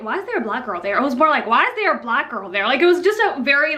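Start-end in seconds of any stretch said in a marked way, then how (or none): 1.5-2.6 disgusted, looking-down delivery with is stressed; disdainful ugh tone. Shown as a demonstration. Director questioning the model's presence, disdainful ugh tone. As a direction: say it with contempt. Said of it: "ugh type of tone".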